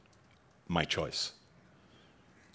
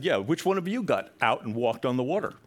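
boastful taunt; 4 semitones higher, 4 dB louder than usual. Retold or imitated. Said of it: "Peter might have said".

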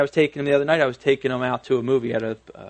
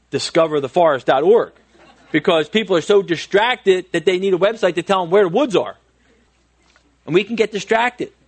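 laughing; 4 semitones higher, 4 dB louder than usual. Real, not acted. Joking about distraction.

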